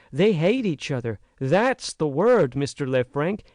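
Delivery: lightly voiced young American woman, rising urgency; frank, earnest girl. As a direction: plead with growing heat. Naomi declares the men's hatred.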